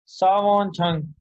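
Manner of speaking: सावोन छंग drawn out slowly, each syllable clear; slow Korean demo. Shown as a demonstration. Teacher modelling सावोन छंग for students, slowly. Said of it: "सावोन इस मुलाजिम को कहते हैं".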